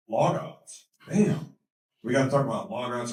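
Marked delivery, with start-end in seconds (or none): 1.1-1.5 excited bam. Shown as a demonstration. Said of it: "bam as teaching device".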